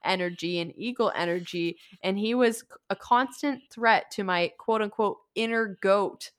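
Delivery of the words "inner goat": laughing. Real, not acted. Laughing through the reading.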